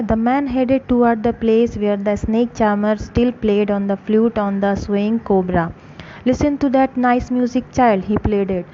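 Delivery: slow, careful read-aloud for a class; story narration. A narrator's reading. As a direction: read each phrase slowly for students. Slow English story reading.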